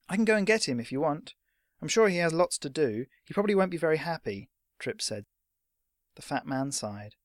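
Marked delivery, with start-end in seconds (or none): 0.1-4.5 higher, innocent lad's voice; cheeky young messenger; bluffing boy. Acted. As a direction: offer it lightly as a veiled threat.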